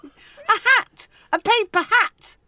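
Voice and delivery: high loud triumphant shout; excited exclaim. Real, not acted. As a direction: announce it like a grand reveal. Triumphant answer.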